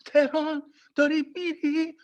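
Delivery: high, fast, frantic dad voice; mock panicked dad. Son heading out, dad panics in high voice. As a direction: rattle it off like an alarmed father. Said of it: "He says it like".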